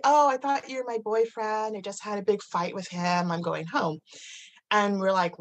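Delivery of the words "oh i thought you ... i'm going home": retold drunk woman, lightly Californian-accented; imitating a drunk stranger in a light Californian accent. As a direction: put on a slightly tipsy Californian voice. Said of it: "didn't have a Californian accent".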